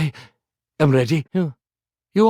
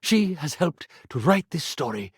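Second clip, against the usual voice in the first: reading the final lines; 3 semitones lower than usual. Acted. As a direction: read the ending as if it moves you deeply. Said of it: "I'd like to read you just the last few lines".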